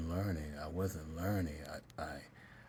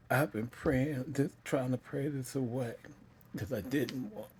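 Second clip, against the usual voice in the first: high, louder, emotional and halting; tearful confession; 7 semitones higher, 4 dB louder than usual. Real, not acted. Child telling mom of praying it away, tearful confession. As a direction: plead through welling tears. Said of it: "I feel that feeling again".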